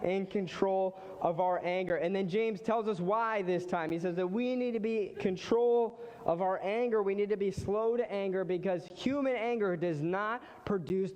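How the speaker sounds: energetic preaching. Real, not acted. Preaching, stirred after laughter.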